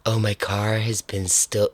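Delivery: Canadian attempt that slips into porn star; understated, badly faked Canadian accent; botched Canadian accent. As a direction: try Canadian, sound accidentally like a porn star. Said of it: "now it sounds like a porn star".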